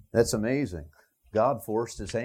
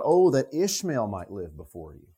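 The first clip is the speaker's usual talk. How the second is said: pleading; 3 dB louder than usual. Retold or imitated. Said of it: "He's pleading".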